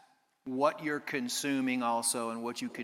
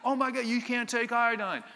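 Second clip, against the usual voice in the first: much higher mock horror; mock horrified doctor; 10 semitones higher, 4 dB louder than usual. Doctor forbidding iodine to a patient in much higher mock horror. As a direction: throw up your hands as the doctor. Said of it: "He's like".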